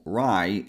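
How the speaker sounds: RAI stressed, with a full "eye" vowel; strong first syllable. Shown as a demonstration. Teacher isolating the first syllable, "rai" given full stress. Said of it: "is the strongest one".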